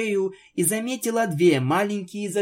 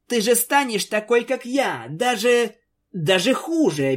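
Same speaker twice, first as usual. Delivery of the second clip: worried; 7 semitones higher than usual. A narrator's reading. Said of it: "беспокоилась Твайлайт".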